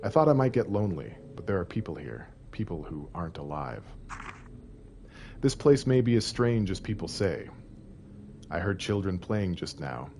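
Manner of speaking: diary reading. Acted. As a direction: read it like a lonely diary. Reads diary notes in game.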